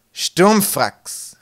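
loud, high exclaimed question; feigned surprise. A narrator's reading. Mate pretending not to know the plan, exaggerated surprise. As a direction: overdo the astonishment on one word. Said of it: "rief Slivo in geheuchelter Überraschung".

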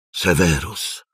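tender, softened name with a lift; gentle. A narrator's reading. Silente pleads with Piton by name, gently. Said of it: "aveva pronunciato il nome di Piton con dolcezza".

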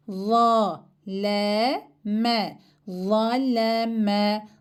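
"La" said with a thick open A and the tongue between the teeth; teacher drills the thick, lisped "La". Shown as a demonstration. Teacher shows her pupils the thick letter, with a lisp. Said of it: "La harfi kalın ve peltek okunur".

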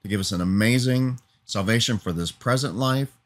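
a sincere, steady spoken prayer. Real, not acted. Preacher turns from his hearers to pray to Jesus, sincere prayer. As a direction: talk to God, thankful and earnest. Prays aloud to close.

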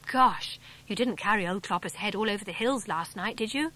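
a touch of surprise, lightly voiced; mild amazed gosh; astonished. Dick, mildly astonished at Sid carrying the horse head. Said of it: "said Dick, astonished".

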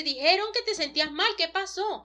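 lightly acted desperate worry; desperate father. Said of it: "el señor desesperado le dice".

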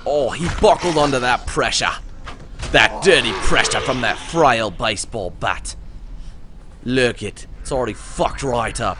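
hammed-up Aussie commentary; Australian accent. Player gloating over a beaten zombie, Australian accent. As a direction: relish the damage in a put-on Australian accent. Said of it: "How's my Australian accent?".

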